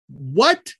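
incredulous rising squawk; shocked disbelief. Retold or imitated. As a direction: yelp it as if abandoned. Boy learns he is left behind.

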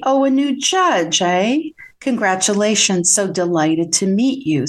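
mock-friendly, lightly sarcastic welcome. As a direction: greet the newcomer with feigned delight.

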